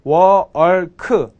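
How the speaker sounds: "work" with a rounded vowel and a curled r; teacher models "work" for learners, lips rounded; pronunciation demo. Shown as a demonstration. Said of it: "제가 발음 가르쳐드렸죠".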